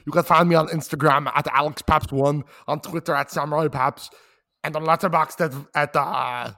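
put-on Arnold Schwarzenegger accent, speeding up. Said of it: "continue the accent".

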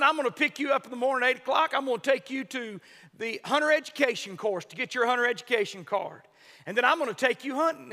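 hammed-up old man vowing help; impassioned climax. Old man promising the boy.

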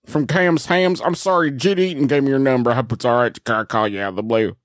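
lightly voiced folksy ham seller; a hint of an apologetic small-town caller; Cameron Ham. Cold-calling Clint for a prank, lightly put-on character voice. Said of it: "come in as Cameron Ham".

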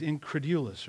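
"incredulous" with a "DOO" sound in the middle; variant pronunciation. Shown as a demonstration. Preacher trying out the word for the congregation, "incredulous" said in-cre-DOO-lus. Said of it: "depends on which syllable you put the emphasis".

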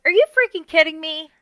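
high, incredulous protest; mock outrage. Acts out her outraged reaction to friend.

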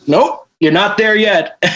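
hammed-up snooty lead singer; dismissive singer. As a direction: sneer out the refusal. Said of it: "he just goes like".

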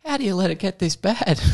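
high mock Aussie complaint, laughing through it; hammed-up Aussie grumble; Aussie bloke muttering aloud. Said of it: "I just hear the mower cuts every time".

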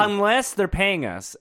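drawn-out slow aside; slow it down for the punchline; slow joking aside. Acted.

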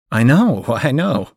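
amused, breaking into a laugh; teasing chuckle at a friend's quirk. Acted. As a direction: laugh through the second I know. Laughing about her favourite album.

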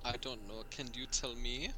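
put-on soft German accent, quietly. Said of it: "sworn I was just teleported to Berlin".

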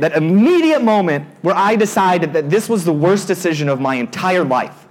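normal talking voice

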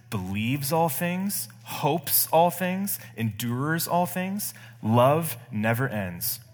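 slow, solemn reading of the verses, stretching each "all things"; measured sermon scripture read building to a slow close. Acted. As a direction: read the passage reverently, lingering on every line. Reads scripture aloud.

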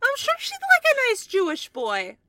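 a hint of a Yiddish grandma; Yiddish accent. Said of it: "Ruby goes Yiddish accent".

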